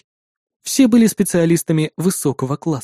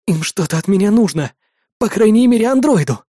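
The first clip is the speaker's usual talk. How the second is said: feverish thought; 2 semitones higher than usual. Acted. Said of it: "лихорадочно соображал сержант".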